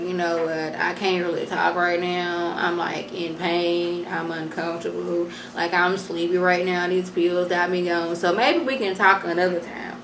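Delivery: soft, sleepy mumble of a woman on painkillers; drowsy and in pain. Retold or imitated. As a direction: let it fade as if the pills are kicking in. Annalise drowsy on pills, in pain.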